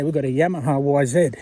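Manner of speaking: YAMAHA as YAM-a-ha, Z as "zed"; own-country pronunciation. Shown as a demonstration. Vlogger contrasting his countrymen with Americans, short-a and zed pronunciation. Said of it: "We say".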